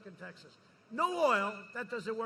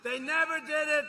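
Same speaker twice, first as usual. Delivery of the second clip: emphatic repeat; 6 semitones higher, 9 dB louder than usual. Real, not acted. Repeats line, second time shouted.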